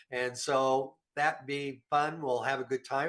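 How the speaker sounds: stuffy blocked nose; talking through a head cold; nasal from a cold. Real, not acted. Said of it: "If I sound a little nasal".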